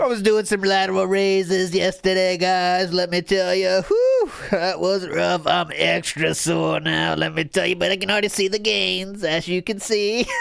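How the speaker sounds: mock gym bro brag; a hint of a bragging lifter. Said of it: "workout bro era".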